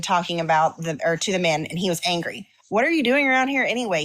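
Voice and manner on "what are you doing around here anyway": demanding. Retold or imitated. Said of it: "he demanded".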